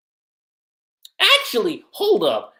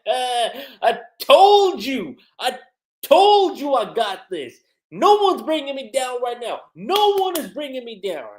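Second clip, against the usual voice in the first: triumphant boast; 7 semitones higher, 5 dB louder than usual. Retold or imitated. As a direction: crow it like a fighter still standing. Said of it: "he's like".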